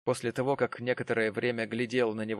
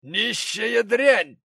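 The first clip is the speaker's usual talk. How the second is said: high, loud, slow building outrage; outraged gentleman; 12 semitones higher, 9 dB louder, slower than usual. Acted. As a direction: spit out the insult in horror.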